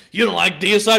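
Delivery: annoyed disbelief. Retelling a clip heard on a phone: imitating someone almost pissed off. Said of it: "that was sounding, like, almost pissed off to me".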